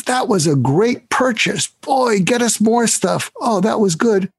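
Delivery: a hint of a boss gushing over a good buy; pleased boss. Boss praising a purchase.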